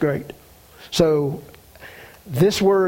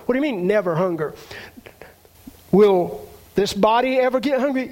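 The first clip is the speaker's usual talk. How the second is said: whisper; 2 semitones higher, faster than usual. Acted. Rhetorical question to congregation.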